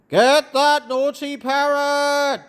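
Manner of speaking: acted yell at a runaway parrot; story character yelling an order. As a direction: call out as if starting a chase. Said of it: "Stop yelling".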